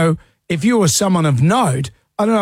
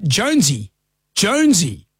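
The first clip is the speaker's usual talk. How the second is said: mild mock yell; name called out, without real volume; imitated yelling out; 3 semitones higher than usual. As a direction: mimic a lady calling her pet. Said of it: "a lady was yelling out".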